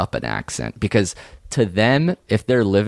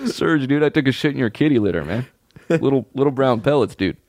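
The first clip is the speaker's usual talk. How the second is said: doofus bro voice; 4 semitones higher, faster than usual. Pretend. Bit voicing a pet character.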